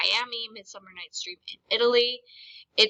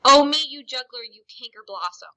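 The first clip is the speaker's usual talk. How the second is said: angry; 9 dB louder than usual. Shown as a demonstration. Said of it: "is angry".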